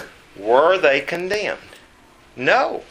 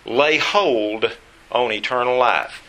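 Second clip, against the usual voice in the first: slow, weighted "lay hold on eternal life"; deliberate stress on "lay hold on eternal life"; emphasized phrase; slower than usual. Shown as a demonstration. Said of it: "I emphasize the phrase".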